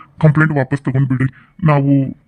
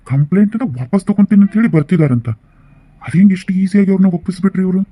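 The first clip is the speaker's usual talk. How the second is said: incredulous surprise; 4 semitones higher than usual. Acted. Lawyer astonished they withdraw complaint.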